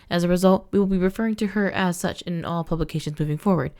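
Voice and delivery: steady news-anchor read; measured report voice; newspaper read-aloud. Acted. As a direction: read it like a bulletin. Reads in-game newspaper aloud.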